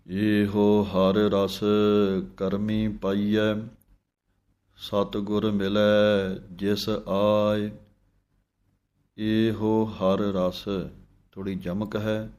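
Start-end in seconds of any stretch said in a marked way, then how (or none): 0.1-10.6 slow chanted reading of the hymn; scripture recitation. Shown as a demonstration. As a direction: recite the verse slowly and devoutly.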